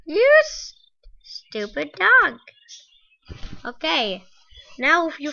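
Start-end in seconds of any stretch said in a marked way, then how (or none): 0.0-2.4 scream into giggles. Real, not acted. After fright, scolding.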